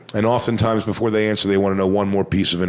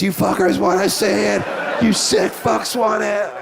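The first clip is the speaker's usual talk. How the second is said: much higher, slow taunting roar at the crowd; hammed-up wrestler taunt; 10 semitones higher than usual. Comic as wrestler taunting imaginary audience, hammed-up heel roar.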